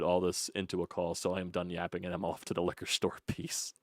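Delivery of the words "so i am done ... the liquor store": ordinary delivery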